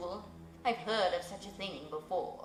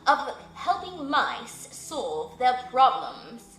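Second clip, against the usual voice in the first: stately owl; 4 dB louder than usual. Acted. Owl speaks to the mouse.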